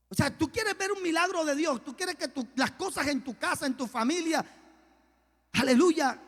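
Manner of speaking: high, loud preacher's exhortation; fervent preaching. Real, not acted. Preacher challenging the church about praying, fervent preaching. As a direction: preach it forcefully, voice pitched well up.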